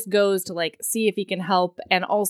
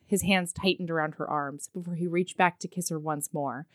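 hushed romance reading; 2 semitones lower, 4 dB quieter than usual. A narrator's reading. Reads the novel aloud.

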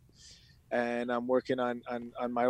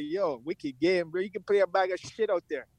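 sarcastic dad; 6 semitones higher than usual. Retold or imitated. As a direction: drag out the praise, then cut him down. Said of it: "And then your dad's like".

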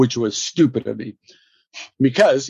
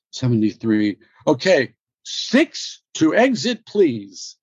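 reading blind; much slower than usual. Retold or imitated. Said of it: "having no idea what that means".

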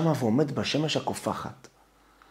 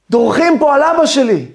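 zealous scream; 10 semitones higher, 9 dB louder than usual. Acted. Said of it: "צורח את הגוואלד שלו".

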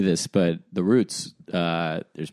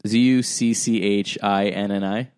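spelling out letters; slower than usual. Shown as a demonstration. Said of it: "You wanna try?".

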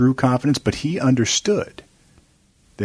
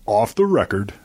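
radio voice; slower than usual. Pretend. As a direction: announce it like a late-night DJ. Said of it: "I gotta perfect my radio voice".

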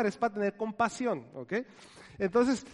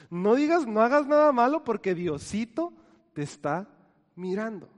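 put-on louder, stern warning to a child, fading at the end; mock scolding warning; 4 dB louder than usual. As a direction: scare a kid out of lying. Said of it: "utilizamos esta frase para asustar a los niños".

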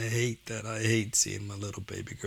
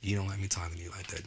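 softer, fast gentle question; gentle realization; 4 dB quieter, faster than usual. Retold or imitated. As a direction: ask her softly, finally seeing it. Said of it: "I was like".

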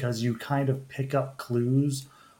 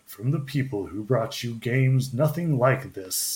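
lightly mimicking a trailer announcer; a touch of hammed-up trailer voice, slowing at the end; overly dramatic trailer guy. Host imitating the guy in a game trailer, mildly overdramatic. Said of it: "overly dramatic guy going".

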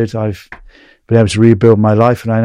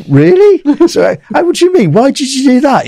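much higher and louder, disbelieving; retold shock at the hitman's claim, pitched up high; stunned disbelief; 7 dB louder than usual. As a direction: react as if you can't believe it. His stunned reaction retold.

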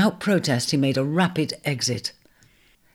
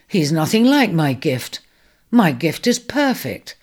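indignant; 4 semitones higher, 4 dB louder than usual. Acted. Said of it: "he said indignantly".

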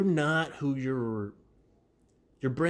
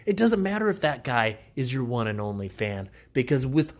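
loud, upbeat sponsor pitch; peppy podcast ad read, louder and brighter than the chat; 2 semitones higher, 5 dB louder than usual. Acted. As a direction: sell it like a radio spot. Host reads podcast sponsor ad.

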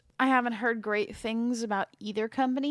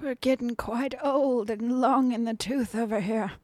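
put-on old man voice. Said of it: "I will not talk in my old man voice all show".

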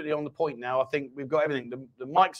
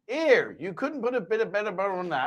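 rustic West Country farmer voice; West Country accent; 2 semitones higher, 4 dB quieter than usual. Shown as a demonstration. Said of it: "That sounds like a farmer".

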